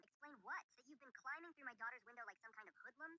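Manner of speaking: high, loud outraged yell; angry. Retold or imitated. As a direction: snap at him in outrage. Outraged mother confronting daughter's boyfriend.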